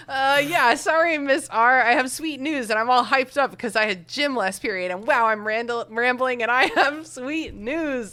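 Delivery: gushing. Acted. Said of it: "Zach gushed".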